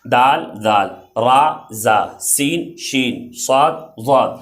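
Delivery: alphabet pairs recited slowly; slow recital. Shown as a demonstration. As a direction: count the letters out slowly. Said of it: "شروع سے یاد کریں".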